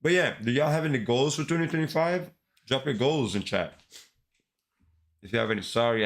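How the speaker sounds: talking with a mouthful of food; mouth full. Real, not acted. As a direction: chew and talk through a bite. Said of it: "I have my mouth full of food".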